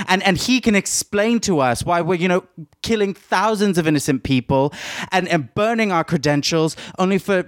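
indignant demand for an explanation; acted indignation. Woman refusing to be appeased by him, indignant.

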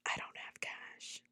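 horrified whisper; panicked whisper. Retold or imitated. Realizing in the cab she has no cash, whispered dread. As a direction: breathe it out in dread.

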